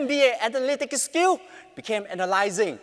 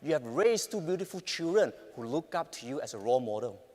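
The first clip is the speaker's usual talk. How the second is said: gentle but firm; 2 semitones lower, 4 dB quieter than usual. Retold or imitated. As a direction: reassure him gently. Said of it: "Gentle but firm".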